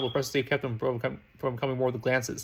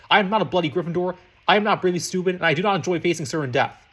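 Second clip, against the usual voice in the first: angry; 3 semitones higher, 5 dB louder than usual. Acted. Draco furious at friend.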